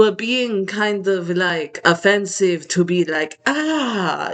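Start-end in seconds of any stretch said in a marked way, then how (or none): 3.5-4.3 high, drawn-out mock "ah"; weird "ah". Speaker mocking those who say teal offensively, weird high "ah". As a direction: let out a put-on, high-pitched "ah". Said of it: "in a really weird way".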